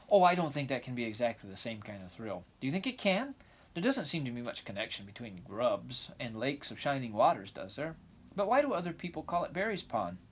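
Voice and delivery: put-on lively, eager young girl; excited girl voice. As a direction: chatter on like a dreamy child. Anne questions Matthew.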